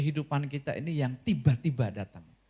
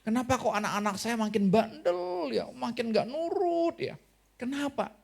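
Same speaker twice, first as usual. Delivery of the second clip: exasperated parent; 6 semitones higher than usual. Retold or imitated. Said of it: "Saudara, diomongin".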